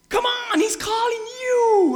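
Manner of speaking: slow, high, loud call to come. Retold or imitated. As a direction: wave him over loudly. Crowd voiced calling blind man.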